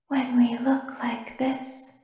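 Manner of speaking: slow breathless whisper; whispered plea. Acted. Baby whispering to the technician, a slow hushed plea. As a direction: whisper it like a secret in the dark.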